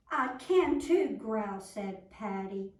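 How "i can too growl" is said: insistent shout. Acted. Patty insists loudly.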